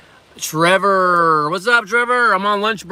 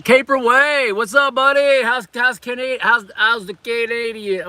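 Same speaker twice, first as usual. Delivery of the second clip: much higher, bright hello to a viewer; excited greeting; 6 semitones higher, slower than usual. Real, not acted. Vlogger greeting a Canadian viewer, excited and high. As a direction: call out to a new viewer.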